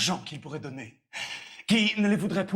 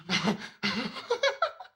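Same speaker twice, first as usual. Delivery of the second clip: amused laugh; 3 semitones higher than usual. Acted. Valet learns the old father is in love, laughing. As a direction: burst of mocking laughter.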